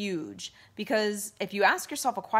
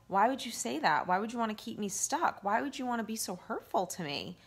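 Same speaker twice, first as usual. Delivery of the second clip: with love; 3 semitones higher than usual. Pretend. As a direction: ask it tenderly, without judgment. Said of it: "when you look at it with love and you say".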